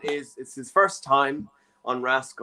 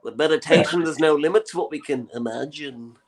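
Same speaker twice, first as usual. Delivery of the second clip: lightly voiced parody Beatle; John Lennon. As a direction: intone it as a spoof Beatle guru. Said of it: "John Lennon's like".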